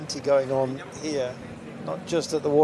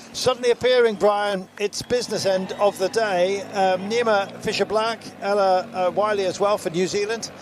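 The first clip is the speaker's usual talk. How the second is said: rising excitement, pitched up; excited; 2 semitones higher than usual. Real, not acted. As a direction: race commentary building to a call. Race suddenly heats up.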